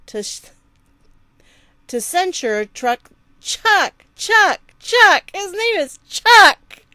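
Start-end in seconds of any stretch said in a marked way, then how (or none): 3.4-6.8 high squealing giggle through the words; cracking up while correcting the name; breaking character giggling. Real, not acted. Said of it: "I can't do it with a straight face now".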